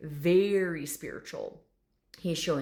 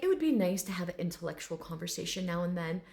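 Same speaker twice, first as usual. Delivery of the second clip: lightly voiced refined intellectual; a touch of lofty restraint; proper gentleman. Dragon wishing for smarter talk, mildly lofty. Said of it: "this very proper gentleman".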